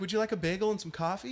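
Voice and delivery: quick, soft hospitality offer, lightly voiced; a hint of a courteous front-desk host; upscale receptionist. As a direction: offer it politely, lightly put on. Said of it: "one of those upscale places".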